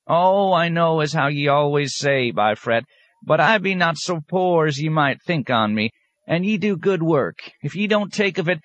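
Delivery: put-on high old country woman rambling excuses; old woman excusing her dog to the abbot, high and wheedling; wheedling old peasant woman. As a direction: plead for the dog in a high backwoods voice. Old woman insisting on donation.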